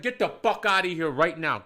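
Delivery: firm, contained first command; angry order. Retold or imitated. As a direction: order someone out, holding back the full scream. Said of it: "watching me scream at a woman".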